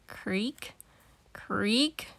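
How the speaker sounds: soft whispered creak. Acted. The new playground starts to give way, whispered creak. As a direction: breathe the creak out, tense.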